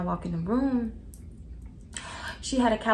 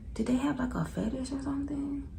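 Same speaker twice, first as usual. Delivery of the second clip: much softer, hushed whisper; whispered aside; 6 semitones higher, 6 dB quieter than usual. Real, not acted. Asking viewers a taboo question, whispered. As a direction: drop to a whisper on it. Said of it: "unvoiced whisper".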